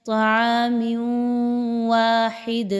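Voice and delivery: طعام واحد with the tanween merged through the nose into و; teacher models ghunna in طعام واحد; nasal merge. Shown as a demonstration. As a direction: hum across into واحد. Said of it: "غنہ کرتے ہوئے پڑھنا ہے".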